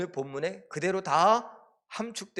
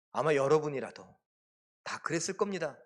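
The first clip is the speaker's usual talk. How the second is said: ordinary talk, nothing marked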